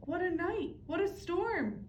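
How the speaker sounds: a hint of a muttering mole; lightly voiced mole. Mole complaining about the storm, lightly voiced. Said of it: "Mole mutters".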